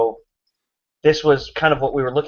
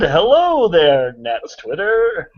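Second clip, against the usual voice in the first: higher, slow drawn-out hello; mock announcer greeting; 4 semitones higher, slower than usual. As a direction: greet like a showman.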